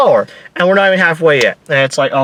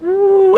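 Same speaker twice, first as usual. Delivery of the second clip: high-pitched falsetto "ooh"; rider's high whoop. Retold or imitated. Imitates riders' cry.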